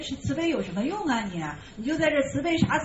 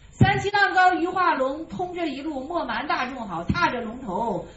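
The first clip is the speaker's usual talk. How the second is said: verse recitation; 2 semitones higher than usual. Acted.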